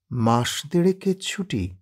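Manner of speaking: taken aback, repeating his words; a mild, slow surprised echo. Acted. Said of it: "অবাক হয়ে বলেন".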